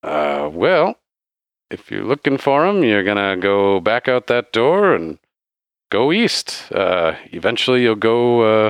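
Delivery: put-on slow, lightly accented barkeep; hesitant bartender. Bartender gives directions to a traveller, slow light character voice.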